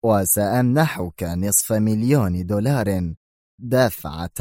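slow and deliberate; firm offer. Acted. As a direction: weigh each word. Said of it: "أردف في حزم".

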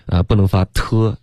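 ordinary delivery

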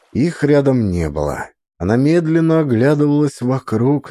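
ordinary delivery, nothing marked

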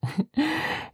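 brief, high, quiet chuckle; amused chuckle. Acted. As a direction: let out a small high giggle. Amused chuckle while pouring syrup. (小さく高い忍び笑い)

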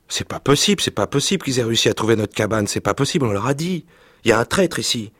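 put-on outraged boys. Boys cursing the plundered hut.

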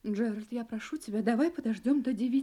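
soft, desperate begging; quiet pleading. Acted. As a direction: plead under your breath. Wife begging husband to wait.

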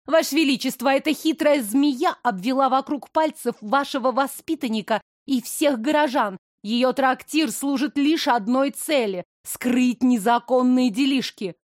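tattle eagerly to the queen; spiteful young blonde. Acted.

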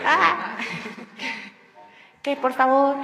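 loud mock plea; playful shout. Guest jokingly begging for open archive access, playful shout. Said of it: "grita, grita para que sea".

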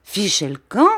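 baffled question rising; bewildered echo. Acted. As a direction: repeat the slang, lost. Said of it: "d'un air ahuri". (répétition ahurie, montante)

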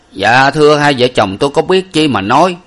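humble servant. Acted. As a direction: speak up respectfully to the master. Năm Mạnh voiced higher.

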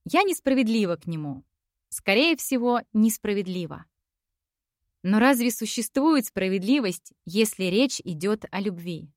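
ordinary delivery, nothing marked

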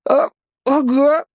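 put-on high, slow timid boy's yes; scared captive mumbling consent; cowed boy. A narrator's reading. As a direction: agree meekly.

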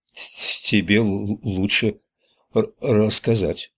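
calm, level voice with a stutter; calm, even. Acted. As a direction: say it evenly, stuttering on first sounds. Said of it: "спокойным, ровным голосом". (спокойно и ровно, заикаясь)

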